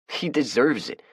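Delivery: high, sharp retort. A narrator's reading. Shooter defending the beating, defiant high retort. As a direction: snap back defiantly. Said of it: "Shooter retorted".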